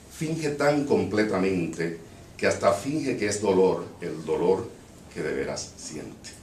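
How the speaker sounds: poem recited in Portuñol-accented Spanish. Shown as a demonstration. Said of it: "with a Portuñol accent".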